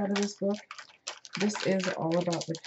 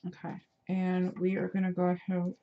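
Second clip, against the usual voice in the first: talking around a glue cap; words muffled by a cap in mouth; mouth full. Real, not acted. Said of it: "I have my glue cap in my mouth".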